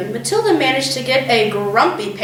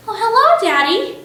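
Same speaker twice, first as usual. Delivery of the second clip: pleasant; 9 semitones higher than usual. A narrator's reading. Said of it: "she said pleasantly".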